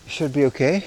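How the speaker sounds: breathy from the uphill climb; short breaths between words; shallow breathing. Real, not acted. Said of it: "Excuse my breathing".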